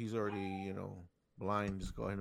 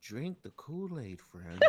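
mock cult preacher; 4 dB quieter than usual. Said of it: "This is like in a cult".

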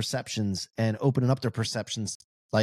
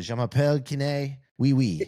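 mock French; 3 semitones higher than usual. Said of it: "just go around and say".

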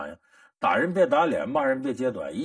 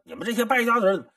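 mock cursing; 5 semitones higher than usual. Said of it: "来气天天骂骂咧咧".

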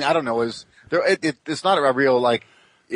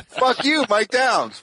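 John Cleese voice; 10 semitones higher, much slower than usual. Retold or imitated. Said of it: "It's like".

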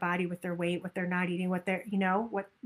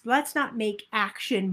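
usual speaking voice

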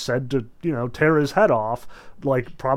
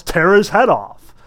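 mock yell; 4 semitones higher, 7 dB louder than usual. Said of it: "some jerk in the back row yells".

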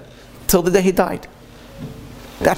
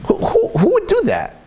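who would ever do that, aghast; incredulous high cry; outraged disbelief; 14 semitones higher than usual. Real, not acted. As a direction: pitch leaps high in disbelief. Outraged rhetorical question.

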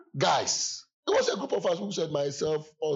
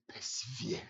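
quiet solemn word; 4 semitones lower, 8 dB quieter than usual. Retold or imitated. Quoting his one-word charge.

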